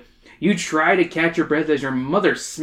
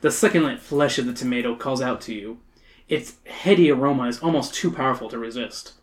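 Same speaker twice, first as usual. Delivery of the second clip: dramatic storybook reading, savoring the phrases; story narration. A narrator's reading.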